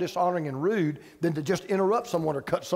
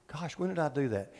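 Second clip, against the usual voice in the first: mock bewildered; 7 semitones lower, 7 dB quieter than usual. Quoted puzzled husband.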